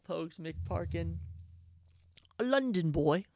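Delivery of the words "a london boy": mock London accent; playful stab at a London accent. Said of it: "How's my, how's my accent?".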